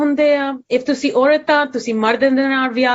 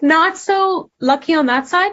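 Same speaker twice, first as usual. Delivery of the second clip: on the edge of crying, voice breaking; 4 semitones higher than usual. Speaker talking about their dad's side of the family, on the verge of tears. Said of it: "Sorry, I'm going to cry".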